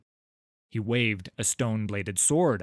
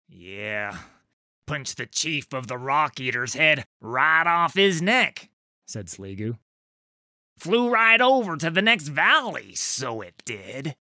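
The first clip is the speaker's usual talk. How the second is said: awed troll storyteller; 3 semitones higher, 5 dB louder than usual. Acted. Sligu boasting of Yeru to Trundle, awed. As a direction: marvel at Yeru's punch.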